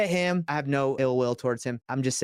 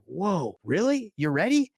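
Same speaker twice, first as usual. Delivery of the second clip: surprised; 5 semitones higher, slower than usual. Retold or imitated. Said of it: "And I was shocked".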